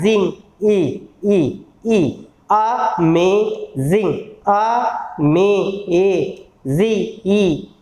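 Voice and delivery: slow, isolated, drawn-out vowel sounds; sound-by-sound breakdown. Shown as a demonstration. Teacher counting sounds in a word, sound-by-sound. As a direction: stretch each syllable and vowel apart. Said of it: "कितनी sound निकल रही हैं".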